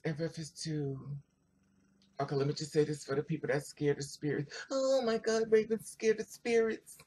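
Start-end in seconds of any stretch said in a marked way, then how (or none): 4.7-7.0 high, slow teasing mock voice; mocking quote. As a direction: mimic the doubters mockingly, drawn out. Mocking what people say.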